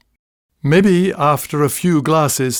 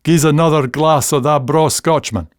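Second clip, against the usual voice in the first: Scots request. Shown as a demonstration. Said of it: "as in".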